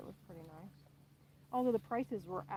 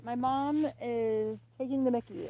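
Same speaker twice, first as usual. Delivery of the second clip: mock English accent; 3 semitones higher, 9 dB louder than usual. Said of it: "you said".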